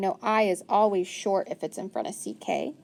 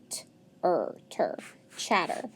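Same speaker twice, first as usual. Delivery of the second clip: whispered blending; 3 semitones lower, 4 dB quieter than usual. Shown as a demonstration. Teacher whispering the blend to a child. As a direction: whisper t-, er, ter, chatter. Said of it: "says ch".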